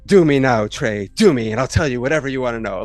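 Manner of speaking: pushy imitated demand, punched at the start; imitating an aggressive seducer; mock aggressive come-on. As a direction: come on strong, right in their face, half-acted. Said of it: "gets super aggressive".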